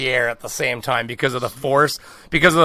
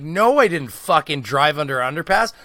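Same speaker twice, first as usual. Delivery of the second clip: indignant protest; 5 semitones higher than usual. Retold or imitated. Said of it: "I'm like".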